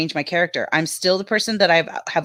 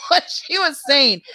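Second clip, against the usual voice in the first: laughing; 5 semitones higher, slower than usual. Real, not acted. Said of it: "I was laughing so hard".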